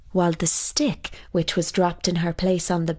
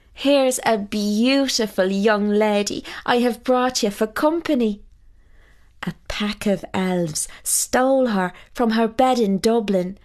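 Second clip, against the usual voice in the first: put-on a touch higher, eager young man; cheerful son proudly telling his luck; lightly voiced Jamie; 3 semitones higher than usual. Jamie answers his mother.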